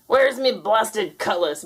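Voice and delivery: slow, angry pirate shout; furious shout. Acted. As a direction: bellow it in a rage. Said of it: "Blackbeard shouted furiously".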